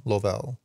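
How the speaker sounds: "Lovell" with an O in the first syllable; testing "Lovell" as lo-VELL; trying another pronunciation. Shown as a demonstration. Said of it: "I'm so bad with names".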